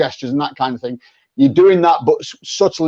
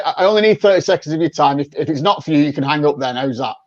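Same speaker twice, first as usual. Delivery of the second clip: quick honest pitch; faster than usual. Shown as a demonstration. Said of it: "But if you say".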